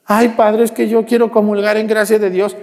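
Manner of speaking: a hint of the pushy churchgoer; pleading parishioner.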